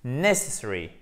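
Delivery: NESS pressed, the rest of "necessary" unrolled; first-syllable stress. Shown as a demonstration. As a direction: hit the start of "necessary", then let it unfold. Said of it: "on appuie sur la première syllabe". (« necessary », première syllabe appuyée puis le reste déplié)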